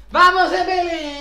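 loud, high, stretched-out shout; excited cheer. Real, not acted. Streamer cheers on Dembélé after a pack reveal, excited shout. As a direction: cheer the player on, dragging the words out.

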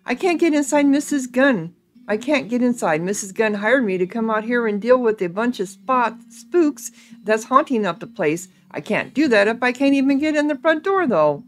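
a touch exasperated, animated character voice; lightly voiced grumbling ghost hunter. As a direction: lightly play a put-upon hired hand.

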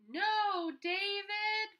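high, loud scolding mother's cry; exasperated mom yelling no. Acted. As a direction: shout it like a fed-up mom. Mom scolding in picture book.

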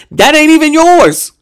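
sudden loud high cry of disbelief; indignant outburst. Real, not acted. Ranting at commenters about fake hair, loud high outburst. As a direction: throw it at them, loud and high.

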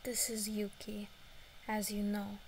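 a put-on Russian accent, held all the way. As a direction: talk like a Russian girl. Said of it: "I really like my Russian voice".

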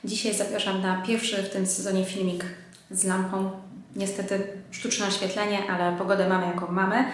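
speaking through a blocked nose; congested, a bit nasal from a cold; stuffy nose. Real, not acted. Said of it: "Jestem też delikatnie zakatarzona".

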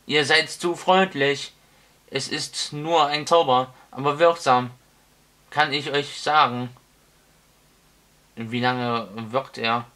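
put-on loud, rambling old wizard; booming old wizard. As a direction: hold forth like a deaf old wizard. Wizard voiced in story.

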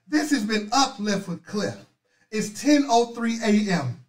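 ordinary delivery

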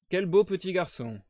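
s'exclamer un peu plus haut et plus fort; exclamation enjouée. Acted. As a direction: Holmes flatte la mère avec entrain. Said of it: "s'écria Holmes". (exclamation enthousiaste)

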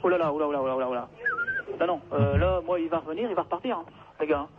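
tinny telephone sound; over the phone. Real, not acted. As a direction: voice through a phone line. Callee protests on the phone. (au téléphone)

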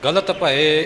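ਗਲਤ ਭਏ said tight and hard; ਗਲਤ ਭਏ with over-tight consonants; tightened pronunciation. Shown as a demonstration. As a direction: show the mistake of pressing hard on ਗਲਤ ਭਏ. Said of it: "ਇਉਂ ਕੱਸ ਕੇ ਨਹੀਂ ਕਰਨਾ".

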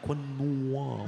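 "Quinoa" said slowly, wuh-NNO-wah, with a held n; "Quinoa" drawn out, wuh-NNO-wah, testing it; unsure pronunciation. Shown as a demonstration. The comic, unsure he is saying "quinoa" right. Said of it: "Am I saying that right?".

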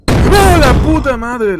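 loud slow shocked yell; startled shout. Real, not acted. Player jumps at a scare, loud frightened yell. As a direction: bellow in fright. Jump scare in horror game.

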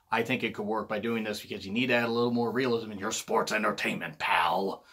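a hint of a gruff wrestling boss; lightly voiced Vince McMahon lecturing; mock boss telling him to add realism; Vince impression. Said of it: "best Vince impression I've ever done".

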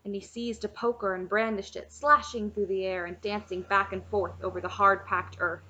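measured storybook reading; story narration. A narrator's reading. Reader reading a chapter book to listeners, story narration. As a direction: read the tale aloud evenly.

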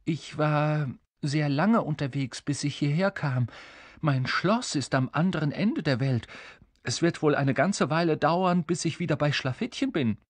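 mildly bewildered king explaining; confused. Acted. King explaining his long journey home, a touch confused. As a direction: explain it a little helplessly. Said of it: "sagte der König verwirrt".

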